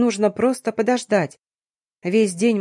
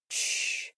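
a long, soft, whispered shush; breathy tender shhh; soothing shush; 14 dB quieter than usual. A narrator's reading. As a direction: hush her like a crying child. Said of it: "заворковал".

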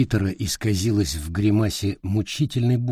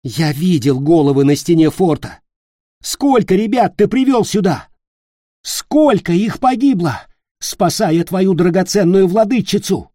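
high, loud confronting; angry accusation; 9 semitones higher, 7 dB louder than usual. Acted. Nick confronting Peter about the dead boys, loud. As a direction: hammer the questions at him.

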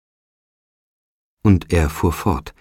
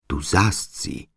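cried out; 5 dB quieter, slower than usual. A narrator's reading. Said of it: "rief Meg".

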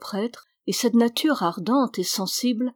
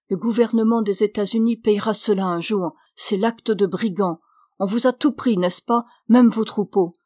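louder indignant priest; indignant outcry; 4 dB louder than usual. Acted. Priest denounces the Americans to Alessandro, indignant and louder. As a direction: rail against the injustice. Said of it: "il s'écria".

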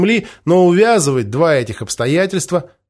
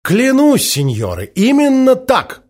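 high, loud, fervent swearing; heated; 10 semitones higher, 4 dB louder, slower than usual. A narrator's reading. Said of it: "горячо произнёс майор Форд".

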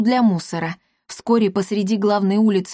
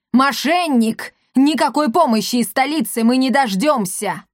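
higher, indignant shouting; angry outcry; 4 semitones higher than usual. Acted. Papa Gautier denouncing the mayor, angry outcry. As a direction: spit out the accusation.

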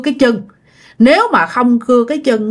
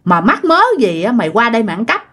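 retold scolding; 3 semitones higher than usual. Aunt accuses nephew of stealing her fish, retold scolding. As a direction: imitate an accusing aunt, without shouting. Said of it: "Cái bả mới chửi".

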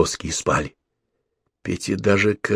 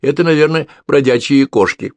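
put-on high sleepy yawning girl; sleepy, tender; 8 semitones higher, 5 dB louder than usual. A narrator's reading. Sleepy girl soothes her mother, a touch of a yawn. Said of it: "нежный и сонный, ответил, зевая".

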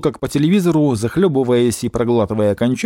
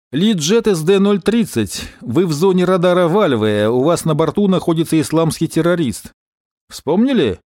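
pilot radio call; 5 semitones higher than usual. Acted. Гера изображает радиосвязь пилота.

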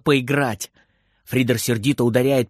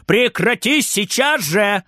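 higher, scolding call from another room; calling out angrily; 7 semitones higher than usual. Acted. Grandma scolding Frieder from the kitchen, calling out. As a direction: tell him off from the kitchen. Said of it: "кричит бабушка из кухни".

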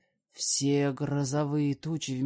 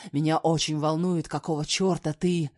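louder, furious man; man yelling about hidden daughters, louder; 6 dB louder than usual. Acted. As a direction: shout it at her. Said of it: "также орёт на меня он".

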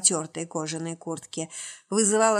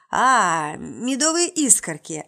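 put-on perked-up old man; 4 dB louder, slower than usual. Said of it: "оживился старик".

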